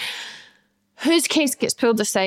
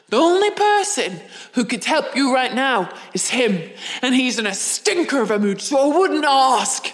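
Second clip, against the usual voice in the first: imitating the security guy.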